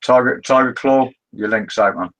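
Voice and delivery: ordinary talk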